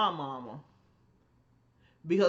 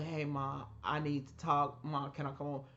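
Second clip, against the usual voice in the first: soft request; 3 semitones lower, 6 dB quieter than usual. Retold or imitated. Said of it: "call my mom and say".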